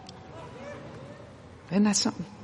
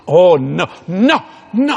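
loud, high mock protest; grandmother protesting; 3 semitones higher, 6 dB louder, slower than usual. Grandson offers a suit, she cries out in protest. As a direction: play the flustered grandma refusing a gift.

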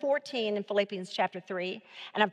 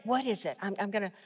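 thinking aloud; 3 semitones lower, 4 dB quieter, faster than usual. Shown as a demonstration. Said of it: "you're trying to think".

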